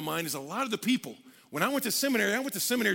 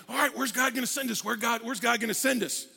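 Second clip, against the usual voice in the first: higher-pitched eager imitation; excited anticipation; 4 semitones higher than usual. New graduate wondering about a first church, excited. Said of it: "you're excited 'cause you're like".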